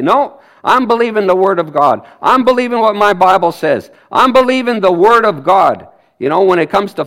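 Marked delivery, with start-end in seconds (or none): 0.0-5.9 loud, bold confession of faith; firm declaration. Shown as a demonstration. Preacher to the congregation, declaring faith loudly. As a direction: push back doubt out loud. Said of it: "push it away and say".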